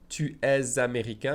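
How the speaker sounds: "Tu es" with the S linked as a Z to "américain"; careful liaison, rising question. Shown as a demonstration. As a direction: join the S to the vowel as a Z. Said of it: "I'm connecting the S to the vowel sound with the Z sound".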